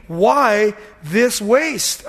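drawn-out, resentful "Why this waste?"; slow indignant question. Retold or imitated. Preacher voicing disciples grumbling at the perfume, slow and indignant. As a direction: stretch it out in mock indignation.

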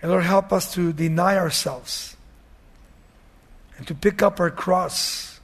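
gentle pastoral prayer; closing prayer. Real, not acted.

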